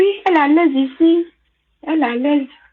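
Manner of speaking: high, falsely sweet, fake reassuring tone.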